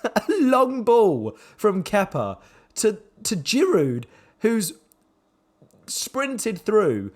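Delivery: rueful laughing commentary. Real, not acted. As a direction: laugh it off in disbelief. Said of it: "I'm laughing".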